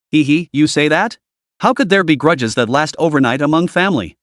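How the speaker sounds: light giggle into a sly question; giggling. Acted. Stepmother giggles at Zhao Fan, mockingly sweet. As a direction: titter through the words. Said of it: "Wang Qin giggled".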